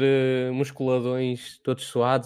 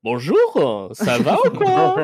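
put-on hick French accent; 3 semitones higher, 5 dB louder, much slower than usual. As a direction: ham up a bumpkin French accent, laughing. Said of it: "parece um paroleu".

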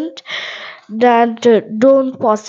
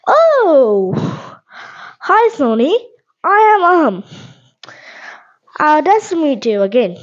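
reply line; 3 semitones higher than usual. Pretend. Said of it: "Then I will give you the answer".

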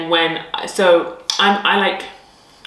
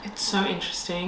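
whisper; 8 dB quieter than usual. Real, not acted. Whispered reaction to the story.

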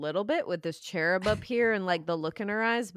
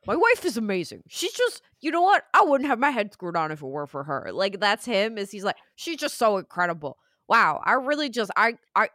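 put-on Midwest dad accent. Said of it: "I gave him a Midwest dad's accent".

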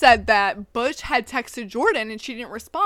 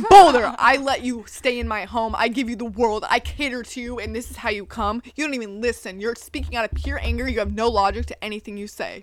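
acted-out Jordan; 2 semitones lower than usual. Playing Jordan telling off Boulder, mildly dramatic. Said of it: "acting it out".

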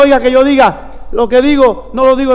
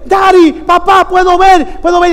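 put-on excited child's cry; 5 semitones higher than usual. Healed blind boy calling to his father, excited cry. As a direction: retell a boy's amazed shout.

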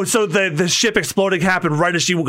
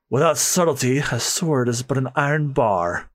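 composed swordsman. Acted. Master swordsman explaining his craft, composed.

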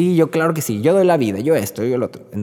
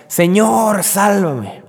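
mock cry for help; 9 semitones higher, much slower than usual. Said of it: "le grita".

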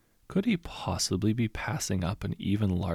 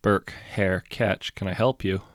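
bored voice; slower than usual. Acted. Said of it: "a bored voice said".

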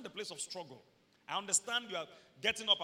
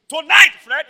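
voicing God; 8 semitones higher, 27 dB louder than usual. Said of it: "If God says".

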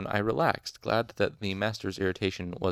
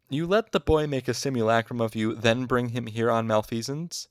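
loud, raised, outraged question; indignant spluttering; 4 semitones higher, 6 dB louder than usual. A narrator's reading. Master scolds colleague over his charge, indignant spluttering. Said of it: "he spluttered".

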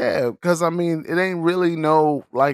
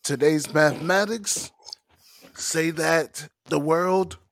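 rapper impression; 4 dB quieter than usual. Rapper teaching his brothers the day's mathematics, rapper impression. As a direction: deliver it like a solemn teaching, phrase by phrase. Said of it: "I had the rapper's cadence down".

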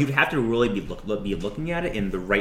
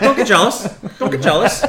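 laughing parrot voice; 8 semitones higher, 9 dB louder than usual. Acted. Raven repeats line laughing.

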